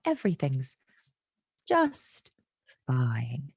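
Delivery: a forced, strained reassurance that cracks; ironic whisper. Acted. Ironic "everything is fine.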